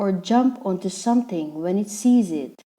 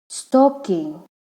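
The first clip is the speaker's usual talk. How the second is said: "stalking" in two distinct syllables; split into syllables. Shown as a demonstration. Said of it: "two syllables".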